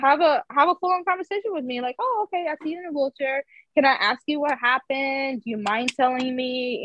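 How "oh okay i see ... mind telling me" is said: polite way to ask. Shown as a demonstration. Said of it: "do it like that".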